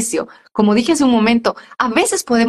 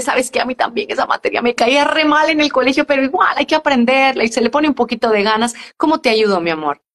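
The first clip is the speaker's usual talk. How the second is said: tender talk to daughter; 2 semitones higher than usual. Shown as a demonstration. Mother reassures her teenage daughter about homework, tenderly. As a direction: comfort the child gently.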